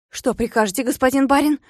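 respectful servant. Acted. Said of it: "Фекс почтительно наклонился".

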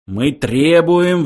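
high, stretched demand; mild roar. A narrator's reading. Philosopher echoing the demand, mildly roaring. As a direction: roar it slowly, not at full force. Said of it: "взревел Врумфондель".

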